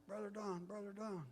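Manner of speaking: high mock holler without much volume; little kid hollering. Kid in the corner interrupting preacher, mock hollering. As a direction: call out in a small high voice. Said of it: "one little kid ... started hollering".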